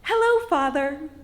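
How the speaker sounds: put-on sugary, polite child's greeting; best-behaved little girl hello; sweetest, nicest voice. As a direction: greet him as nicely as you can. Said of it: "in my best, sweetest, nicest voice".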